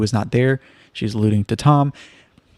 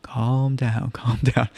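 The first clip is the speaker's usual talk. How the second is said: mock calming; 5 dB quieter, much slower than usual. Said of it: "iconic of Kathy to be like".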